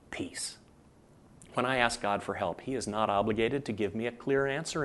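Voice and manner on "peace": breathy whisper on the last word. Real, not acted. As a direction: let "peace" fade to a whisper. Soft close of sermon thought.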